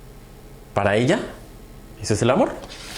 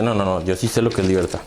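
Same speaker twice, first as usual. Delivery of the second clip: lower, firmer voice for the other man; third know-it-all, lower; 5 semitones lower than usual. Retold or imitated. Another person insists on freedom, lower and firm. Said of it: "Y el otro dice".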